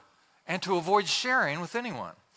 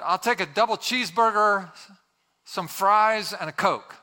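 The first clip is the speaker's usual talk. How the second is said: loud, higher drive-through ordering voice; too loud; 4 semitones higher, 5 dB louder than usual. Acted. Husband ordering at the drive-through speaker, too loud. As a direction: project it at the menu speaker. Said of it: "speaking in a voice too loud".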